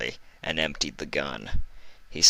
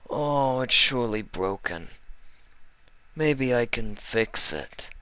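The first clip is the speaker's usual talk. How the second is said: oily, higher mock-kind villain; sly doctor voice; 6 semitones higher than usual. Livestrong taunting the injured Fluttershy, oily and sweet. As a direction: coo falsely sweet like a sadistic doctor.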